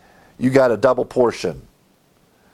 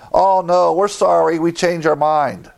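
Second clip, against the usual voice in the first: mock-frantic crowd begging; panicked apology; 6 semitones higher than usual. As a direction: cry out a too-late sorry. Preacher voices the repentant Israelites.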